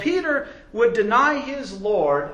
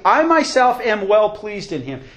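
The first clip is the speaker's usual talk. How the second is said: loud and fast, pressing every word; emphatic; 4 semitones higher, 7 dB louder than usual. Acted. Pastor voicing the Father's approval, loud and emphatic. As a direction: drive it home with force. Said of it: "very emphatically".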